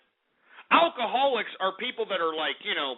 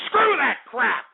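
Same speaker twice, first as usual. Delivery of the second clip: slow furious rant; 4 semitones higher, 3 dB louder, slower than usual. Real, not acted. Host raging at listeners about party hypocrisy, slow and furious. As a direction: drag out each angry word.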